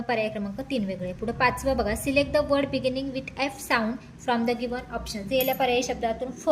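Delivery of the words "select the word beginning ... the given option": each English word spaced out very slowly; slow dictation reading. Shown as a demonstration. Teacher reading the question to students, very slowly.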